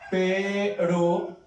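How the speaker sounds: Perú drawn out syllable by syllable, weight on the final ú; Perú split in two, second syllable stressed; stress on last syllable. Shown as a demonstration. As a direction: say Perú slowly, Pe-RÚ, stressing the end. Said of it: "fuerza de voz o acento está en la última".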